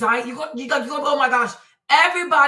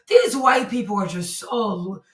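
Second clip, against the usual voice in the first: exasperated shout; slower than usual. Real, not acted. Exasperated rant about media.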